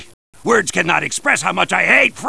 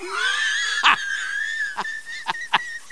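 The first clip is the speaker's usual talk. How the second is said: high faint laugh; 9 dB quieter than usual. Acted. Character laughs.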